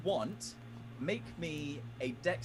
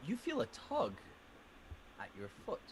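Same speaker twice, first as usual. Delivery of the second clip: game master narration. A narrator's reading. DM narrates the scene.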